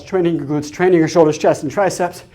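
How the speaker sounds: breathless after heavy squats; panting between words from effort; out of breath. Real, not acted. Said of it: "You can tell I'm out of breath".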